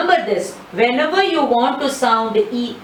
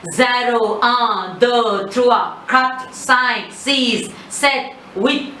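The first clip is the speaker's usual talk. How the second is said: quick count; much slower than usual. Shown as a demonstration. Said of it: "let me tell the numbers very quickly".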